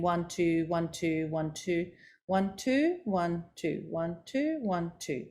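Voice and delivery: repetitive sing-song count with little variation; boring monotone. Shown as a demonstration. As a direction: drone the numbers in the same dull pattern. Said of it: "That's really boring".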